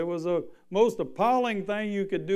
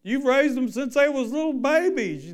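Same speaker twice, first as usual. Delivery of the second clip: impassioned preaching; 10 semitones higher, 7 dB louder than usual. Real, not acted. Preacher climaxes on letting children go.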